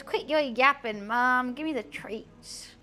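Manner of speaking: pet voiced with a put-on American accent. Pet demanding treats from mom, mock American accent. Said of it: "I don't know why he's American now".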